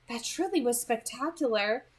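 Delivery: a hint of an amused, knowing girl; Edith's voice. Edith teasing Beau about his questions, amused lilt.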